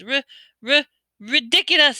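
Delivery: high, stammering squeak; a frightened boy squeaking out the spell. A narrator's reading. Neville facing the boggart, squeaking the spell high. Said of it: "squeaked Neville".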